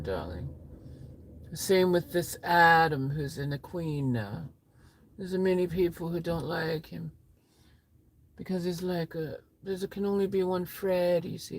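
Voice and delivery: camp diva voice. Acted. Plays a rock-singer-ish diva.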